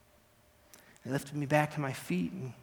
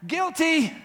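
loud, high ringing verdict; judge's declaration; 13 semitones higher, 7 dB louder than usual. Acted. Judge slamming the bench to declare the verdict, loud declaration. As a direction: pronounce it like a judge at full voice. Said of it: "The judge hit the bench and declared".

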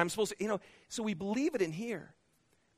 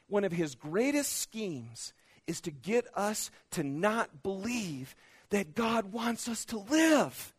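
usual speaking voice

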